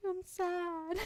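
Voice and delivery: high, hammed-up weepy whine; self-mocking sob, half laughing; mock crying. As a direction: pretend to burst into tears over nothing. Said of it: "I could see a cloud shaped oddly".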